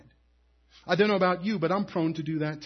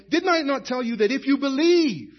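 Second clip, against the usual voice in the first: raised, emphatic question; emphatic preaching, higher and louder; preached emphatic quote; 6 semitones higher, 5 dB louder than usual. Acted. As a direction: proclaim it to the congregation.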